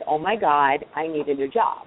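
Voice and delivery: a touch of New York Jewish accent, chatty. Shown as a demonstration. Candidate showing her New York Jewish accent at interview. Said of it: "be very Jewish and very New York".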